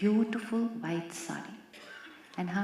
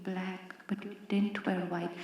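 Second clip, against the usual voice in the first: usual speaking voice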